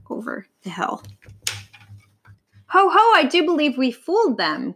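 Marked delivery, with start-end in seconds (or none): 2.7-4.7 high "ho, ho" cackle; gleeful cackle. A narrator's reading. Vulture after hunters leave, gleeful cackle. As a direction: crow triumphantly in a raised pitch. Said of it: "cackled Vera".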